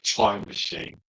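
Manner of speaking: breathy whisper of "Time machine"; whispered aside. Real, not acted. Streamer reading a name under his breath, whispering. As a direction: whisper it to yourself.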